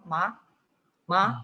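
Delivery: "ma" with a rising second tone. Shown as a demonstration. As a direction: let "ma" climb like a question. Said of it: "del segundo tono".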